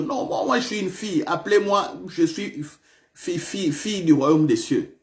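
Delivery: protesting woman. Pretend. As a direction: lightly play a woman insisting she is a daughter. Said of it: "Non, vous allez dire".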